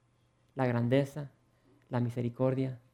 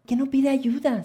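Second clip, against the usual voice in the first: high, loud incredulous question; indignant disbelief; 10 semitones higher, 5 dB louder than usual. Acted. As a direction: wonder it in outrage. Wife's indignant thought.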